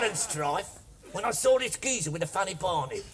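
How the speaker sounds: put-on Cockney with rhyming slang; lightly hammed-up Cockney accent. Shown as a demonstration. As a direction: show off your best Cockney patter. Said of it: "I can do the Cockney when I want to".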